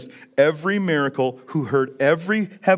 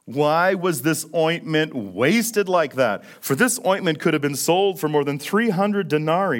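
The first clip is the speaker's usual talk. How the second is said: indignant; 4 semitones higher, 4 dB louder than usual. Retold or imitated. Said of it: "indignantly, with extreme anger".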